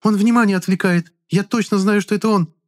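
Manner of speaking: put-on very high, thin girl's voice; shrill girl voice. A narrator's reading. Charlotte's voiced character.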